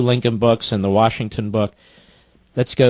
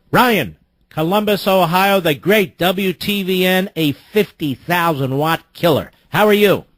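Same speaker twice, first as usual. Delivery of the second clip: announcer intro; 5 semitones higher than usual. Real, not acted. Host introduces caller, radio announcer.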